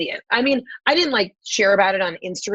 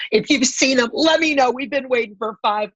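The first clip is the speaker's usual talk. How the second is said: retold comeback, pitched up then dropping; mock eagerness; 4 semitones higher than usual. Daughter needling telemarketer about dead dad, mock-urgent plea. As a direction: play at desperate hope to unsettle a caller.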